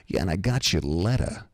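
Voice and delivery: lightly voiced East Coast mobster; Pasquale. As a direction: mention it like a wise guy. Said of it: "just like this. He goes".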